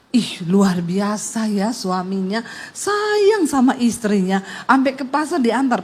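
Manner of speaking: slow admiring market chatter; market gossip. Retold or imitated. Market women admire the husband, slow gossiping tone. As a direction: gush like nosy market women. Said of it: "orang-orang di pasar tuh ngomong gini".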